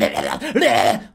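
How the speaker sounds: low, eerie mock laugh; a half-hearted imitated demon laugh; demonic cackle. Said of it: "she's sitting there going like".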